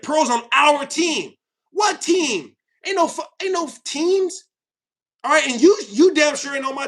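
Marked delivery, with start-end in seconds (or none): 0.0-1.3 mock commenter. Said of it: "That's what they said".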